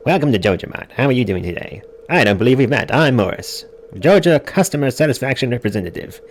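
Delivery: lilting corporate welcome spiel; Morris. Acted. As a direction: play an over-polished store representative. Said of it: "This fellow over here is named Morris".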